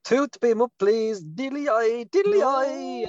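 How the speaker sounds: high mock Irish lilt; hammed-up stage Irish; Irish accent. Irish St Patrick sign-off.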